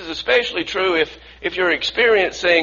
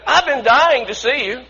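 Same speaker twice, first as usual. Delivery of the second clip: mildly raised, higher-pitched gushing greeting; imitating loud woman; 5 semitones higher than usual. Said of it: "she said it really loudly".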